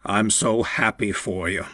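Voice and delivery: put-on choked-up, croaky older man; croaked voice. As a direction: croak it out, fighting tears. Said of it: "Walter's voice came out croaked".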